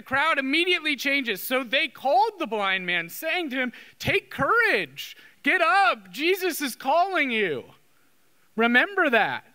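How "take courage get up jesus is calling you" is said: higher, urgent rallying call; encouraging. Retold or imitated. Crowd calls the blind man to Jesus, encouraging. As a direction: urge him onto his feet.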